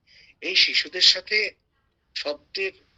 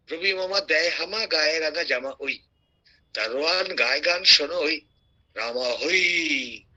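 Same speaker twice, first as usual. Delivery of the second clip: poem recital. Acted. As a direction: chant the verse, stretch out the ending.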